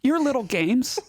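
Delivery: a hint of Valley Girl, whiny and dramatic; Valley Girl accent. Valley Girl accent delivering podcast picks to friends. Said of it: "deliver your picks in a Valley Girl accent".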